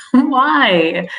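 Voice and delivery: mock dismay at a baffling choice; exasperated why. Recruiter reacting to a yawning candidate, exasperated disbelief.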